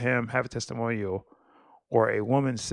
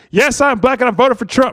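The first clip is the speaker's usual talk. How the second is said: shrill, very loud, high-pitched yell at full volume; 12 semitones higher, 10 dB louder than usual. Reading out an all-caps phrase used by several accounts, yelled. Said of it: "You have to yell it because it's all caps".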